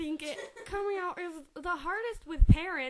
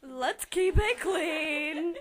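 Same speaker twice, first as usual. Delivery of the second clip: slow calming; 4 dB louder, much slower than usual. Acted. Archie settling group.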